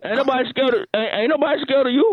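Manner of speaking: stammering on the words; stuttering. Real, not acted. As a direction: trips over the start, repeating it. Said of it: "Why you stuttering".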